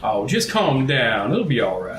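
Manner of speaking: soothing. Acted. Calming the upset goblin.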